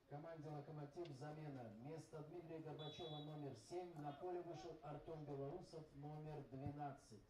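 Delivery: distant, echoing PA announcement; echoing stadium announcer. Real, not acted. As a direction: call it over the stadium speakers. (эхо стадионного диктора)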